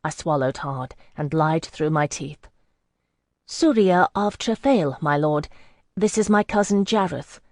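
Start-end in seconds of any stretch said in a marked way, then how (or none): 3.5-7.4 trembling lie. Acted. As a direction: speak carefully, afraid of being caught. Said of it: "I trembled, not dissembling".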